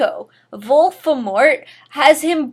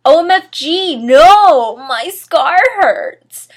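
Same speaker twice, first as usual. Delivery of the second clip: loud, high pained scream; a high panicked cry of pain; 6 semitones higher, 10 dB louder, slower than usual. Acted. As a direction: scream as if the scar burns. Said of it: "He started to scream".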